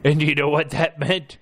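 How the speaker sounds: building excitement. Acted. Building to punchline.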